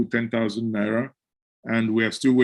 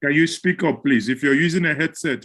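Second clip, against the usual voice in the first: raised voice; 3 semitones higher than usual. Real, not acted. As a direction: call it out clearly. Host calling to muffled caller.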